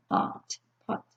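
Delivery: "Pot, pot." whispered under the breath; soft whispered repetition. Shown as a demonstration. Teacher quietly modelling the short o, whispered. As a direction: breathe "pot" twice without voice. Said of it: "it's gonna make the short sound".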